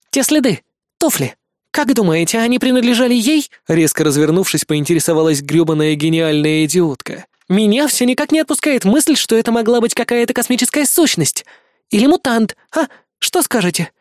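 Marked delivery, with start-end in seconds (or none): 0.1-3.5 put-on higher, excited young woman; bubbling over with a wild idea; eager girl voice. A narrator's reading. Helen turns and pitches her theory to the team, eager and higher. 7.5-13.9 put-on higher, excited young woman; bubbling over with a wild idea; eager girl voice. A narrator's reading. Helen turns and pitches her theory to the team, eager and higher.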